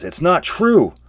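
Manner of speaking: high, loud denial; protesting cry. Acted. Geyer protests her innocence to Yoda, high and loud. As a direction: cry it out defending yourself.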